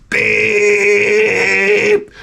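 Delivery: lightly voiced Professor X; suave Professor Xavier. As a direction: greet her like a smooth operator. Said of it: "And he's like".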